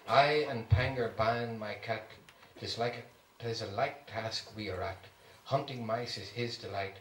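measured, reverent verse reading; respectful poem recital. A narrator's reading. Archbishop reading a monk's poem about his cat, respectful. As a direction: recite it with due respect, unhurried in places. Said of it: "read this little poem with the respect".

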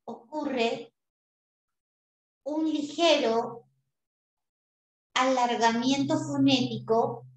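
slow dictation pace with pauses; slow, dictating to students. Shown as a demonstration. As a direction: dictate it slowly for notes. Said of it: "Qué dice la rae".

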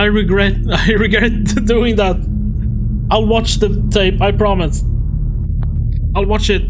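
high-pitched, playful begging for mercy; mock pleading. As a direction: plead in a high voice, half laughing. Begs the game's threat for mercy.

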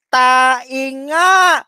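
loud mock verdict on the word nga; mock shout. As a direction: shout it out like the final proof. Acted sniff verdict, shouted. (pasigaw na biro)

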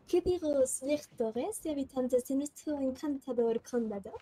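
Spanish with a mock French accent; lightly put-on French accent. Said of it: "intentar poner acento francés".

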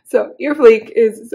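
hoarse, losing voice; strained voice, losing it. Real, not acted. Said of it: "I'm losing my voice".

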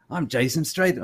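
clumsy mock-British name drop; Jason Statham. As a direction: have a go at a bad British accent. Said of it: "that's a terrible accent".

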